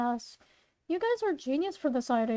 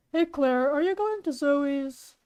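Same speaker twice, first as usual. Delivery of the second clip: lightly put-on father voice; a hint of dad, asking casually; Claire's dad. Dad asks Claire about Zoe's, light character voice. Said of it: "okay, it's this voice".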